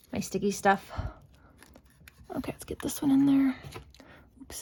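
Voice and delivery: whispered under breath while concentrating. Real, not acted. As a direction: hush it, focused on the task. Focused on delicate task.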